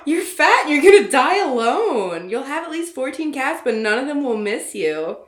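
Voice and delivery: high, loud mocking jab; cruel insult. Nick insults Claudia, loud and high. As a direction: fling the insult at her.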